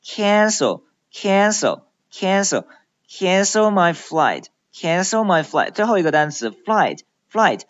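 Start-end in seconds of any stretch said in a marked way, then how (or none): 0.0-5.7 "cancel" with a wide, stretched A; teacher drilling a wide A in "cancel"; wide-open A. Shown as a demonstration. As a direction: open the mouth big on the first vowel of "cancel". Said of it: "一定把嘴巴拉开张大".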